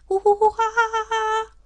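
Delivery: loud, high bird cackle; kookaburra laugh. Acted. Kookaburra laughing from a tree at the reunion, loud high cackle. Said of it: "laughed the kookaburra".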